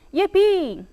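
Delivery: high, happy squeal of yippee; overjoyed cheer. A narrator's reading. Dog freed from the gate by Hattie, high joyful cheer.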